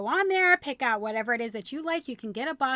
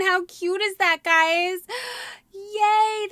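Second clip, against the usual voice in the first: usual speaking voice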